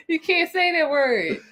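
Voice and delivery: high, slow words through laughter; laughing protest. Real, not acted. Co-host objects to the forbidden word, laughing. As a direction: object while helplessly giggling. Scolds co-host while cracking up.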